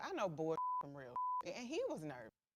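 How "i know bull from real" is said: offhand, aloof, dismissive brushing-off tone. Retelling how the husband brushed off the event: imitating a dismissive husband. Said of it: "he was just immediately dismissive".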